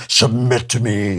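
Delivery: slow, stern alpha-male parody; mock macho command. Host mocking dating guru's tone, slow mock command. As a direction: spoof a domineering husband, slowly. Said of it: "do you have to talk like that".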